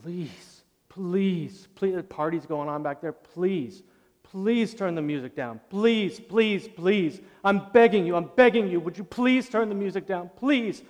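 begging. Retold or imitated. Preacher reenacting begging the old neighbor, pleading. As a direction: beg him like your life depends on it.

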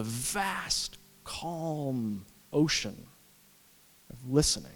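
slow, soft, hushed words; a hushed, unhurried calm. Real, not acted. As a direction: let it settle like still water. Describing God as calm ocean.

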